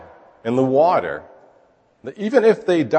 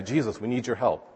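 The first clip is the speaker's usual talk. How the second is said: very nicely; 9 dB quieter than usual. Pretend. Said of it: "they ask him very nicely".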